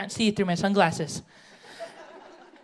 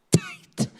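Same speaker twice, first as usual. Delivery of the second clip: squeaky, very high "tight"; mock shocked gossip. Sister gossiping about the pants, squeaky high. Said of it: "talking about my niece".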